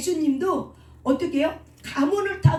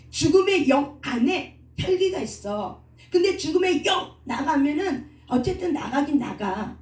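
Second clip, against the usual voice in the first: ordinary talk, nothing marked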